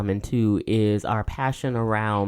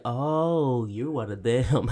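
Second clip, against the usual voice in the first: mock judgmental; 3 dB quieter, much slower than usual. Mimics people judging her Southern accent.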